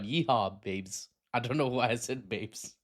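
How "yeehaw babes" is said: put-on half-hearted Texan cowboy accent; attempted Texan accent. Commentator playfully mimics Texan National Guard, attempted Texan accent. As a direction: throw in a jokey Texan twang. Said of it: "I won't try a Texan ac-, accent".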